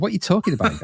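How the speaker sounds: high-pitched incredulous outburst, not truly shouted; mock angry bystander. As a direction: imitate someone baffled and put out. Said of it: "shouting at people and just getting quite angry".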